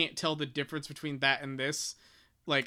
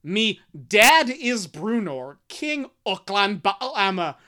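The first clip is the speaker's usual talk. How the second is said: slow, louder, lightly Irish read; light Irish accent; 4 semitones higher, 8 dB louder, slower than usual. Shown as a demonstration. Reader showing Caddy Bree's dialogue, light Irish accent. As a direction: give the line a gentle brogue. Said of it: "this is my point".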